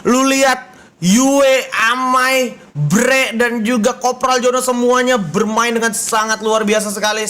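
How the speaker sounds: slow, proclaimed match summary; esports winner announcement. Real, not acted. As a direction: proudly announce the victors, drawing words out. (pengumuman pemenang yang lantang dan perlahan)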